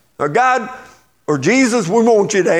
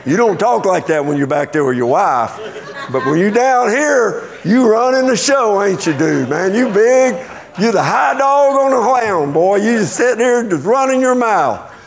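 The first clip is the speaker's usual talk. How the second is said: mocking tease; 3 semitones higher than usual. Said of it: "I said".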